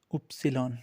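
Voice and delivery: उपसिलॉन said slowly as German ypsilon; teacher naming the German letter Y. Shown as a demonstration. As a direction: spell out उपसिलॉन, oop-see-lon, the German Y. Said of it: "German में हम लोग उपसिलॉन बोलते हैं".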